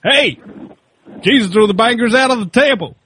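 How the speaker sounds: lightly voiced high redneck; hammed-up Kiwi take on a redneck; redneck impression. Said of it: "Kiwi-oriented impersonation of a redneck".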